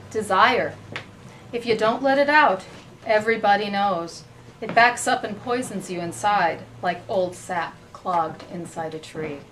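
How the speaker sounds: measured recital, falling phrase ends; poetry reading. Acted. Host reading two partial stanzas, measured poetry reading. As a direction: read it out phrase by phrase. Host resumes poem excerpt.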